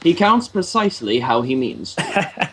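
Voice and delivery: lightly theatrical, lilting wizardly recital; a hint of grand fantasy-film oratory; Lord of the Rings quote. Friend parodies a film line about the beat, lightly grandiose. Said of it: "that line from Lord of the Rings".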